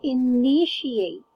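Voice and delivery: "initiate" slowly, each syllable sounded out; pronunciation model. Shown as a demonstration. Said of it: "so it's".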